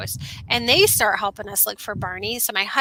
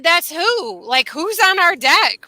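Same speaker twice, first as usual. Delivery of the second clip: higher-pitched incredulous questioning; retold bewilderment; 6 semitones higher than usual. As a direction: act out a baffled mom's questions. Retelling her alarmed reaction.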